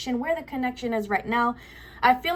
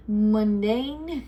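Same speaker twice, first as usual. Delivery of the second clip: tentative "Mundane", tone lifting at the end; unsure pronunciation. Real, not acted. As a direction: try out "Mundane" as if unsure, about to laugh. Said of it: "I don't even know how to say it".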